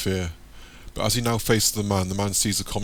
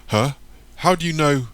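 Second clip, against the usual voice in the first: sudden high, louder surprised question; young Michael caught off guard, pitched up; startled; 7 semitones higher, 6 dB louder than usual. A narrator's reading. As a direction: jolt up in alarm.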